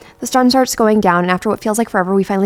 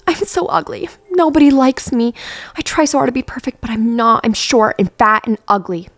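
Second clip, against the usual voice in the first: crying; 5 semitones higher than usual. Acted. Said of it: "comfort Tara as she cries".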